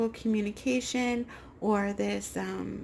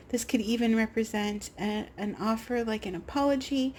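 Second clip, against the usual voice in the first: choked-up voice, struggling to talk. Real, not acted. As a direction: voice catching in the throat. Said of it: "suddenly my voice is, like, choked up".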